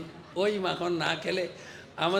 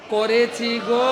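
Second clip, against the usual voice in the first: whining complaint; 4 semitones higher, 8 dB louder, slower than usual. Acted. Gopi complains to mother again.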